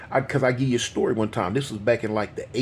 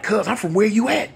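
youngster's reply; 10 semitones higher than usual. Retold or imitated. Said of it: "So he like".

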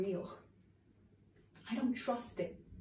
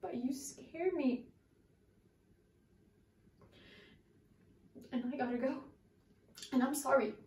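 searching soliloquy. Acted. Actress monologue to Raymond.

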